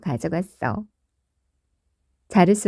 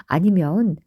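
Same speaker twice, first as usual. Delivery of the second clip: ordinary delivery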